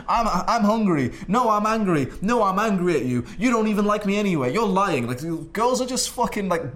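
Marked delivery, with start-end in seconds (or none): 0.1-5.1 mock female tantrum, high and loud; moody girl. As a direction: whine and accuse like an upset girlfriend, hammed-up. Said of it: "expressing whatever emotion she's currently in".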